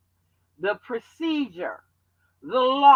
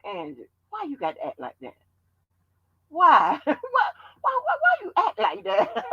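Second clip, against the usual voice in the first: laughing mock; 5 semitones higher than usual. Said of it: "mock repeat of Jackie".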